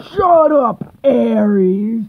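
high, loud snap at him; angry snap. Acted. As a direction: cut him off sharply. Queen snapping at Ares.

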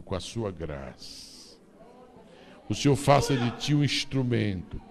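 earnest blessing; blessing prayer. Real, not acted. Blessing prayer over child.

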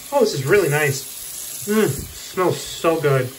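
slow, drawn-out appreciative murmur; savoring a smell. Real, not acted. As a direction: linger on it like a lovely scent. Sniffing the new dish soap.

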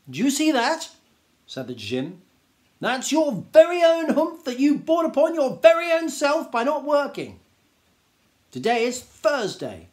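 a grand Djinn lecturing the camel; stern scolding Djinn. Acted. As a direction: tell the lazy camel off.

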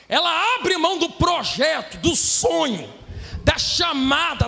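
full-force sermon delivery; impassioned Brazilian pulpit preaching; fervent preaching. Real, not acted. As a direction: preach it hard to the congregation, stretching key phrases.

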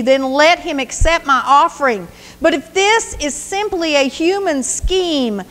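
a wronged son pleading with the king. Acted. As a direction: beg the king to see reason. David's anguished plea to Saul.

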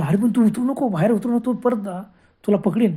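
high, anxious pleading; fearful warning. Acted. Scared driver warning friend not to step outside. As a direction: warn him urgently not to go out. Kailas fearfully warns Sanju.

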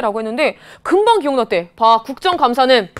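ordinary delivery

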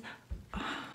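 long breathy sigh, no voice; out-of-breath sigh. Real, not acted. Vlogger catching her breath before a result, sighing out. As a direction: let out a shaky nervous exhale. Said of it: "I'm out of breath".

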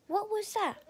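high-pitched startled question; acted gasp of surprise. A narrator's reading. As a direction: ask it as if caught by surprise. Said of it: "Rachel gasped".

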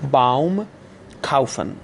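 باوم and کاوفن with an "ow" glide; au diphthong. Shown as a demonstration. Teacher gives example words for au, باوم، کاوفن with a clear "ow". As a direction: model the German au as "ow" in باوم، کاوفن.

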